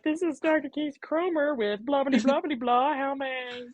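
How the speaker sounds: high, singsong phone greeting; mock your own professional phone voice; answering-service spiel. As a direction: rattle off a high, silly receptionist script. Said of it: "like, some stupid bullshit".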